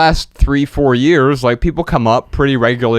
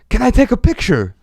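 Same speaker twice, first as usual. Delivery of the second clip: a hint of an Italian accent, pitched higher; foreign accent; 10 semitones higher than usual. Italian woman asking the host for a photo, a hint of Italian accent. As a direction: lightly imitate an Italian accent. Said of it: "with, like, a foreign accent".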